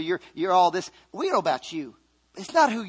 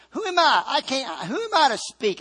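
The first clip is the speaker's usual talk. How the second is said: hesitant Moses; 6 semitones higher than usual. Retold or imitated. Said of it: "Moses said".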